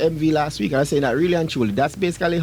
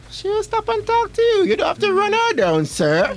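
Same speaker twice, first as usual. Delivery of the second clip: scolding. Pretend. Lecturing a pushy man.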